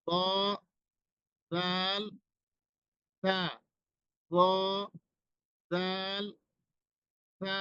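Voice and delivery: ক, জাল, সা each soft, tongue tip on the teeth; soft letter sounds. Shown as a demonstration. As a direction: model the three soft letters slowly. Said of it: "নরম উচ্চারণ এই তিনটাই".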